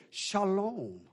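"Shalom" said slowly, shah-LOHM with falling end; shalom greeting. Shown as a demonstration. Preacher shows the Hebrew greeting: "Shalom" with a soft fall. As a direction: greet them with a gentle "Shalom". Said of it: "they would say".

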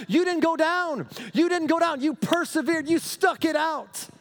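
loud, high, driving preaching. Acted. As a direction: build the church up to a shout. Preaching at full force.

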